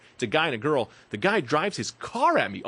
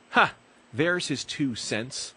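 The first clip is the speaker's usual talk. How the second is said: mocking taunt; much slower than usual. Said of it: "she looks at her friend and she goes".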